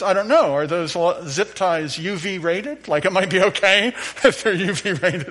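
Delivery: joking electrician. Retold or imitated. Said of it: "Of course, he was joking".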